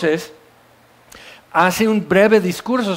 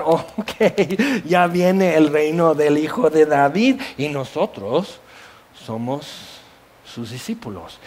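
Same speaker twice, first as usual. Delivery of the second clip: disciples boasting; 3 semitones lower, slower than usual. Retold or imitated. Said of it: "todos están".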